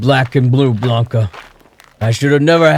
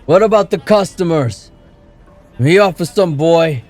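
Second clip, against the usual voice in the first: put-on furious drunk father, louder and higher; thundering; 6 semitones higher, 5 dB louder than usual. A narrator's reading. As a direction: rage at her drunkenly. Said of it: "he thundered".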